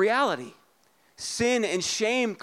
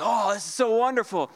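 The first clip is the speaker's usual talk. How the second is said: mock Adam rapture; 3 semitones higher than usual. Pastor voicing Adam delighted by Eve, mildly gushing. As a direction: swoon over Eve. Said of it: "He's like".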